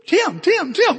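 high, loud repeated name-calling; insistent calling out. Retold or imitated. Wife trying to break into his meltdown, insistent calling.

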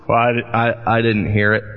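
low, stammering mock-sheepish reply; sheepish excuse. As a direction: play the husband caught out, voice dropped. Acting himself sheepishly answering angry wife.

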